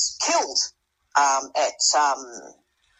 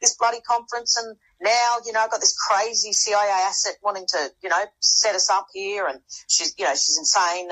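ranting; 4 semitones higher than usual. Retold or imitated. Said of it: "I'm just going off at God".

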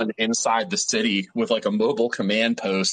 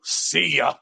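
mocking goodbye; 6 semitones higher than usual. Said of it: "you just hear a voice go".

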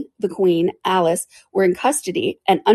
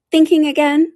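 teasing Duchess; 10 semitones higher, 7 dB louder than usual. Acted. Duchess pokes Alice, high.

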